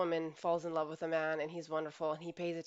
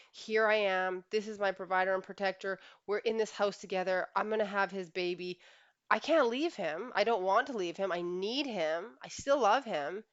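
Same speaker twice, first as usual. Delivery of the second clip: louder, emphatic voicing of a woman's inner alarm; freaking out; 2 semitones higher, 4 dB louder than usual. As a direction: voice her rising desperation, dragging out the last pleas. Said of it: "Our instincts are freaking out".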